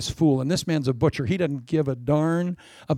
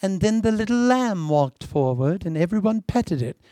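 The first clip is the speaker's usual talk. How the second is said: mock sweet storybook; 3 semitones higher than usual. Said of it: "This isn't some sweet little Bible story".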